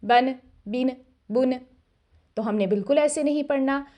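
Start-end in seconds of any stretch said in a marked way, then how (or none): 0.0-1.5 बन बिन बुन hurried with the final n clipped; wrong rushed reading of tanween. Shown as a demonstration. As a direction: read बन बिन बुन too quickly so the n gets lost. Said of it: "बहुत ज़्यादा जल्दी करेंगे तो आखिर में आने वाली नून की आवाज़ शेक हो जाती है".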